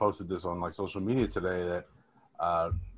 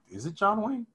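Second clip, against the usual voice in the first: put-on high, unsure child's guess; clueless kid; 11 semitones higher than usual. Child guessing who the president is, high and unsure.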